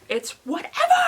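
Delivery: high, loud sing-song shrug; mock nonchalance. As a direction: toss it off cheerily, pretending not to care. Repeated, higher brighter take.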